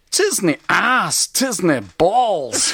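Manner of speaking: hammed-up Scottish accent, loud and laughing; crap Scottish accent. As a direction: bark it like a bad Scottish impression. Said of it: "I apologise for the crap Scottish accent".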